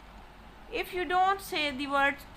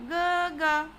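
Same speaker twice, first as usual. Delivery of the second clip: "ga, ga" held high and even; high level tone on ga. Shown as a demonstration. Teacher showing elder brother, "ga, ga" in first tone. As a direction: chant "ga, ga" steadily on one note. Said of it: "high level tone".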